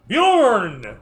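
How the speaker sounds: high, loud call with a long drawn-out name; booming announcement. Acted. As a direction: announce the character like a big reveal, stretching out the name. Game master announces the next player character.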